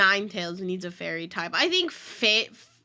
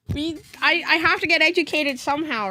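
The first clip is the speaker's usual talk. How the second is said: defensive protest; 5 semitones higher than usual. Real, not acted. First of two contrasting takes.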